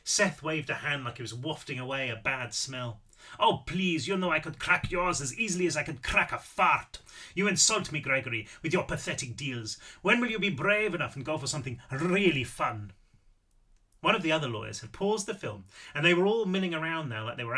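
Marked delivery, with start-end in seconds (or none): 3.4-12.9 lightly voiced old Austrian man, mock scolding; dismissive old man with an Austrian accent. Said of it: "Apparently I am doing the accent".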